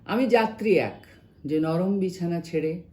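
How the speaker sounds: measured Bangla verse reading, pausing between phrases; expressive recital of a translated poem; poem recitation. Acted. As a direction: recite it line by line, letting the phrase endings sink.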